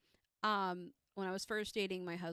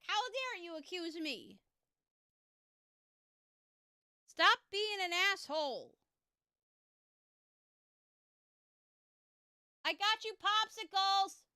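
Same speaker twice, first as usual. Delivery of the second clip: higher, louder mock outrage, slow at first; mock indignant; 10 semitones higher, 6 dB louder than usual. Wife pretends to scold husband, mock indignant. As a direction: play at being offended.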